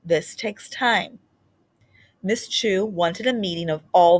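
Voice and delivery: gentle, expressive storybook reading; reading to children. Acted. Teacher reading a storybook aloud to children, expressive. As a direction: read it aloud like a picture book to a class. Reads a picture book aloud.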